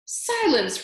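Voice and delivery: booming command for silence; head mouse roaring silence; roared. A narrator's reading. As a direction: roar it down over the crowd. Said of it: "roared the most very honored head mouse".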